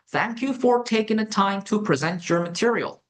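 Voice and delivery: slow, word-by-word model sentence; slow dictation. Shown as a demonstration. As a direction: spell it out slowly for the class. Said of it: "dictation pace example". (받아쓰기하듯 천천히)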